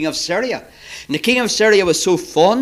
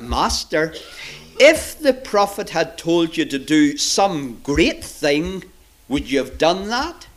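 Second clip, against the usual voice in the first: mild, measured, gentle reasoning. Acted. Servant reasons with his furious master, gently. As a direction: coax an angry master carefully. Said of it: "he must have said it very gently".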